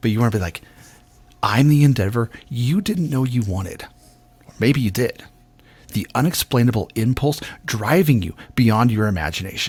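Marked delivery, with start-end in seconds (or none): 1.4-9.7 playful, teasing tone, coyly holding something back. Demonstrating the script line for a reader: teasing, secret-keeping tone. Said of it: "that energy that I've got a secret".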